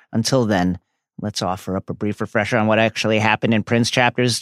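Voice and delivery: hushed dramatic letter reading; mock solemn letter. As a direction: read it like a doomed last note. Parodies Regulus's letter.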